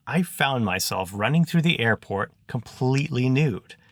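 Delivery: animated, wordy self-justification; lightly voiced Zek. Zek explaining his odd clothes to the truant boys, animated. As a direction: explain it all with emphatic formality.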